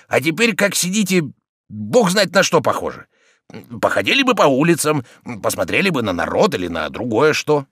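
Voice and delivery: a lightly voiced complaining servant; old servant Zakhar. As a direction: whine like a put-upon old servant. Zakhar argues with master.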